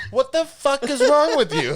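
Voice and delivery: high, loud mock outrage; retold outburst. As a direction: yell it as the appalled girlfriend. Retold outburst of angry girlfriend.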